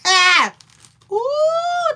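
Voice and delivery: very high, loud laughing squeal; high burst of laughter; laughing shriek. Real, not acted. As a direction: let out a delighted shriek.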